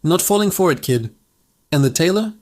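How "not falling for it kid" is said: dismissive shout. Acted. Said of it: "The blacksmith shouted out his window".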